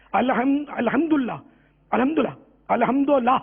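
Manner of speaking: الحمدللہ rushed as a quick alhamdola; fast careless الحمدللہ, the way it slips out; common wrong version. Shown as a demonstration. A teacher showing students the common slip. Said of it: "یہ نکلتا ہے منہ سے".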